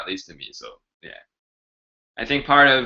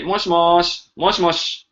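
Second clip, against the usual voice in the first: higher, lilting phone-answer voice; phone greeting; 6 semitones higher than usual. Shown as a demonstration. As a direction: pick up the phone brightly. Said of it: "How to answer phone in Japanese".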